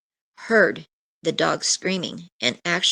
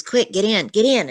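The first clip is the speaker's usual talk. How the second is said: retold urgency; 4 semitones higher than usual. Retelling frantic urging at door.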